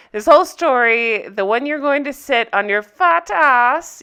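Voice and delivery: lightly exaggerated European accent; Anna's accent. Recapper quoting the heroine's insult, mock European accent. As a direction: quote her in a mock-German accent, stressing "fat ass". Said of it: "that's what she says".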